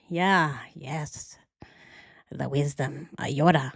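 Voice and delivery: soft whispered yes; playful whisper. Acted. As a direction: breathe it out unvoiced. After Yoda line, playful.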